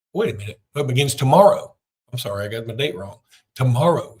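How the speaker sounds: announcer-style ad read for the playoffs; promo read. Acted. Podcast host reading a sponsor promo to fans, announcer voice. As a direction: sell it like a TV spot.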